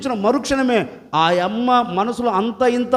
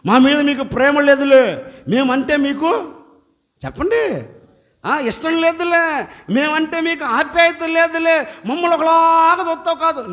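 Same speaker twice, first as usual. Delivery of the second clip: lightly voiced sulking woman, higher; mock complaining woman; 5 semitones higher than usual. Pastor mimics a sulking woman complaining to God. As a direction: whine it like a hurt churchgoer.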